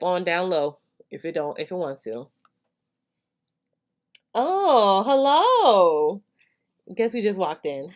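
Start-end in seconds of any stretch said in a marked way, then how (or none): 4.3-6.2 high, loud greeting. Real, not acted. Greets someone walking in.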